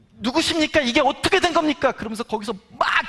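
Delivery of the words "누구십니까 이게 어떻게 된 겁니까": tearful pleading. Retold or imitated. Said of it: "막 울면서".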